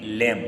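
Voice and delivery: लैम closing cleanly on M; silent B. Shown as a demonstration. Teacher gives the correct reading, लैम with silent B. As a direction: leave the B off the end of लैम. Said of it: "इसको पढ़ते हैं लैम".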